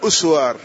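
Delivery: أسوار as "uswaar", opening on short U; added hamza. Shown as a demonstration. Teacher repeating the variant with added hamza, أسوار as uswaar. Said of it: "ويقال بزيادة الهمزة".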